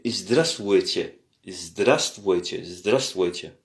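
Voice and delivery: Здравствуйте said slowly, stress on the first syllable ZDRAST; slow careful Здравствуйте. Shown as a demonstration. Teacher modelling Здравствуйте slowly for French learners. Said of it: "L'accent se porte sur la première partie".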